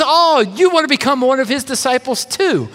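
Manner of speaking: mock-surprised, sarcastic jab. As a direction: needle them with a sarcastic retort. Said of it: "Can you hear the sarcasm in his voice?".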